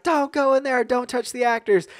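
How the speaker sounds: shouting rules at the waiting crowd; actor's yelled rules. Retold or imitated. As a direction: bark the warnings like a haunted-house guide. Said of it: "see this guy shouting".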